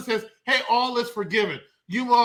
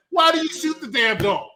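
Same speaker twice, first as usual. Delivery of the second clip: higher, louder mock complaint; mock indignant question; 6 semitones higher, 3 dB louder than usual. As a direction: play the baffled accuser. Mocking question to sheriff.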